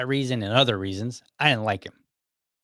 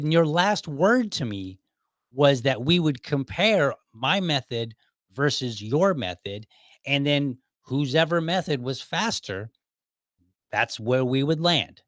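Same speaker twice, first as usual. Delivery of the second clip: slow, deliberate reminder, pitched up; very frank; 3 semitones higher, slower than usual. Retold or imitated. Employee reminds manager of their agreement, frank and deliberate. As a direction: spell out the agreement point by point. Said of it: "I was very frank with him".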